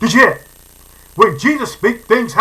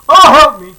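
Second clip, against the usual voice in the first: higher, much louder frantic pleading; desperate begging; 6 semitones higher, 9 dB louder than usual. Retold or imitated. Preacher acting the Gentile woman begging Jesus, frantic high plea. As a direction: beg like a mother desperate for her child. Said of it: "I can hear her saying it".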